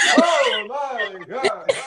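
high, slow, drawn-out "Oh my God"; drawn-out exasperation. Real, not acted. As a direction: stretch it out in disbelief. Mock disgust at sparkles.

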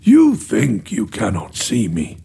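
low, calm reassurance; gentle voice. A narrator's reading. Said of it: "continued the gentle voice".

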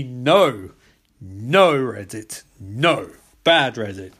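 slow, punched nos with pauses; mock scolding. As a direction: tell off a naughty dog, hammed-up. Mock scolding of Reddit like a pet.

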